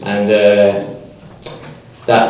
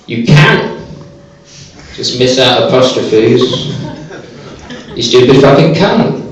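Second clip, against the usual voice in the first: retold furious message; angry message. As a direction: tell him off, half laughing. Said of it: "I sent the guy an angry message".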